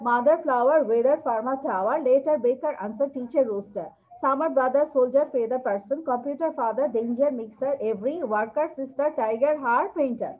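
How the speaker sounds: word list rattled off quickly for the class; fast drill reading. Shown as a demonstration. Teacher demonstrating a fast word drill for students. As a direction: race through the list to show the speed. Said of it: "এভাবে অনেক fast".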